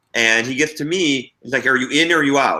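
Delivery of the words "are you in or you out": imitated shouting, fired out forcefully. Retelling a judge pointing at players for an answer: imitating someone shouting. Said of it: "shouting at us".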